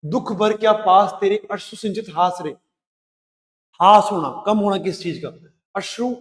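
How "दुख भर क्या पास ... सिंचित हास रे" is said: measured, lilting recital of the verse; poem recitation. Acted. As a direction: read it like a poem to the class.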